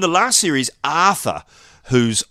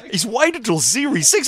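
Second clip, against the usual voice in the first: mock outrage; 9 semitones higher than usual. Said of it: "we're going".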